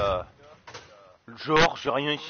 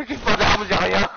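laughing; 3 semitones higher, 3 dB louder, slower than usual. Real, not acted. Laughs while unarmed in fight.

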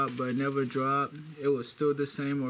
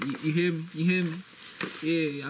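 imitating a rapper; 2 semitones higher than usual. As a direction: hype it up like a Chicago rapper's ad-lib. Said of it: "do that rapper accent".

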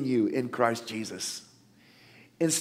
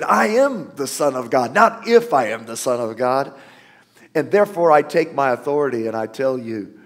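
louder, firm preacher's declaration; bold declaration; 5 dB louder than usual. Acted. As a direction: stand your ground and proclaim it. Preacher voicing Jesus rebuking Satan.

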